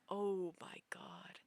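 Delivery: breathy whispered oh my God; shocked whisper. Retold or imitated. Dreamer whispering in panic as drunk friends get caught, hushed whisper.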